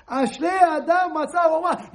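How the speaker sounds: "Ashrei Adam Matzah Chochmah" proclaimed loud and high, stress on "Adam"; proclaimed verse. Shown as a demonstration. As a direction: preach the verse with full force. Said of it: "The Torah is full of wisdom".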